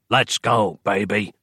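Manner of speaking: cold hissing layered whisper; menacing rasp of a burnt doppelganger. Acted. Dark fraction speaks.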